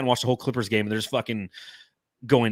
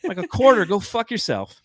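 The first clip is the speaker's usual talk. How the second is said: higher, brash older New York lady accent imitating a stingy customer; 7 semitones higher than usual. Imitating a hospitality customer from New York, higher and brash New York lady accent. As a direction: play a New York lady handing over a measly quarter tip. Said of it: "I've dealt with many of them".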